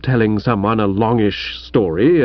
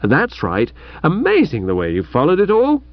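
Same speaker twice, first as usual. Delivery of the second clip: congratulatory; 2 semitones higher than usual. Acted. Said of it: "in a congratulatory sort of voice".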